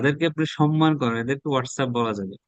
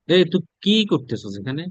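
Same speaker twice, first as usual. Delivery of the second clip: angry. Shown as a demonstration. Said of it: "রাগান্বিত হয়ে যখন বলে না".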